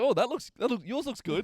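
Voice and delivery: high, put-on kid voice; imitating coveting child. Child admiring the grown-up's dinner, high imitated kid voice. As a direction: play a child angling for someone's food, pitched well up. Retold child eyeing the adult's food.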